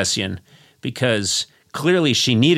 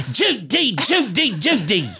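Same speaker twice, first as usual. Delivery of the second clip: higher, sing-song Judy calls; Cary Grant's ghost; 11 semitones higher than usual. Pretend. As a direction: play the ghost guest. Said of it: "the ghost of Cary Grant".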